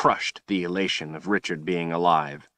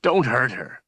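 begging in tears; 5 semitones higher than usual. A narrator's reading. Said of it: "Richard begged in tears".

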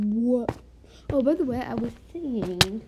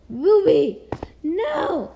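high, loud, hammed-up wail; mock desperate pleading; 14 semitones higher, 4 dB louder, slower than usual. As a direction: beg the dog not to leave. Mock pleading as dog leaves.

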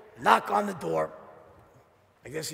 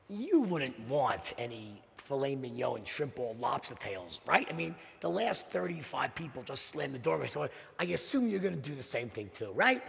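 defeated salesman; 5 semitones lower, 4 dB quieter than usual. Retold or imitated. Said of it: "He didn't say those words".

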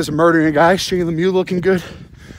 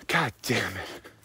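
slow, low, breathless curse; exhausted groan; 6 semitones lower, 11 dB quieter, much slower than usual. Real, not acted. Winded, sighing while running.

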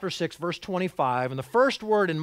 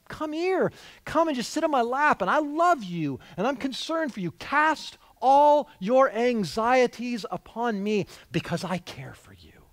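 higher-pitched, earnest tender pleading, softening at the end; loving father; 5 semitones higher than usual. Shown as a demonstration. Father invites his worried child onto his lap, tender. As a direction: draw a worried child close and reassure them. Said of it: "That's the voice you should hear".

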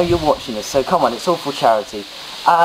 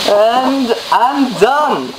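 exhausted; 7 semitones higher, 3 dB louder, much slower than usual. Real, not acted. Drained after ice water.

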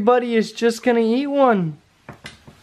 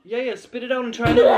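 urgent shout; 6 semitones higher, faster than usual. Real, not acted. Urging daughter to spit out.

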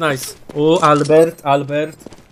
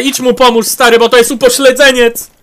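exasperated; 4 semitones higher, 5 dB louder than usual. Real, not acted. Ordering teammate to help.

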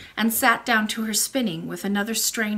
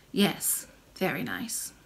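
put-on low, slow old woman; a gentle old grandmother speaking; old lady voice; 5 semitones lower, 8 dB quieter, slower than usual. Old lady answers the princess.

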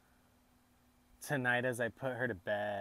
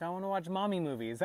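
lightly voiced little girl, higher and louder; a hint of an eager small child, higher and quicker; young daughter; 8 semitones higher, 5 dB louder, faster than usual. Young daughter asking dad for mommy movies, lightly imitated child voice. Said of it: "she's like".

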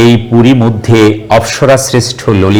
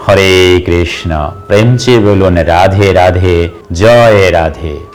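devotional invocation; 2 semitones lower than usual. Real, not acted. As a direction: draw out each holy name reverently. Devotional salutation closing the instructions.

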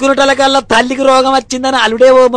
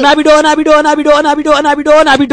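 wailing lament; 3 semitones higher than usual. Acted. Mother laments for her daughter.

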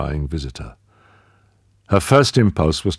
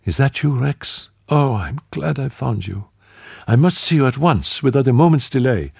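high, lilting and urgent on the phone; sing-song but pressing, much higher; lilting woman's voice; 9 semitones higher than usual. Acted. Tanith calls Rex on the telephone, high and lilting. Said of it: "A lilting voice came over the wire".

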